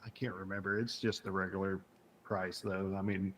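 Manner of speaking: soft unvoiced murmur; whispering. Real, not acted. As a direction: say it under your breath. Unvoiced low speech.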